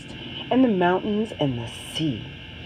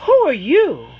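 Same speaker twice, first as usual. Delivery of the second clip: put-on high, louder children's voices asking; curious children; 7 semitones higher, 6 dB louder than usual. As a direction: kids calling out their questions. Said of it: "the children ask".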